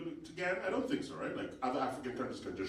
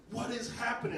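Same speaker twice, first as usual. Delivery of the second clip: bewildered; 9 semitones higher than usual. Retold or imitated. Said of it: "Canadians and Americans are like".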